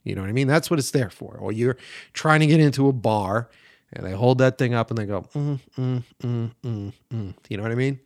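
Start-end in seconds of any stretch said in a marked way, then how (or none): 5.3-7.3 doubtful humming bouncer; sceptical hums. Retold or imitated. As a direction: hum as if checking a face against a photo. Bouncer checking the ID.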